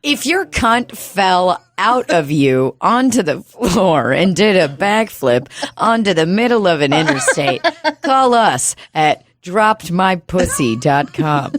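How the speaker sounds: slow, deliberate ad pitch; hammed-up, slow call-to-action; mock commercial. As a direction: spoof a lawyer ad with drawn-out emphasis. Mock law firm commercial.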